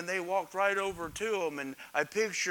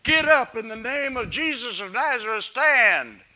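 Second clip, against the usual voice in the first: commanding Peter; 4 semitones higher, 8 dB louder than usual. Acted. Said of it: "Picture Peter, he just reached out".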